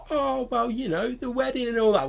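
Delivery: high-pitched goblin voice; explaining goblin. Acted. Goblin telling a stranger about the princess's wedding, explaining.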